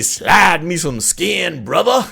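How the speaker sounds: a hint of a stereotypical Black accent, slow; mock stereotypical Black accent. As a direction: quote the cliché in a lightly put-on Black accent. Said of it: "now I don't say".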